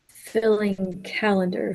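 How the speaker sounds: normal talking voice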